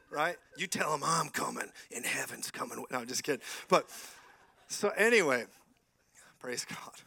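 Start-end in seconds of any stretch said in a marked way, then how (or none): 0.6-2.8 lightly voiced cold-hearted gunslinger; a hint of a western lawman's threat; Wyatt Earp. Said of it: "cold-hearted like Wyatt Earp".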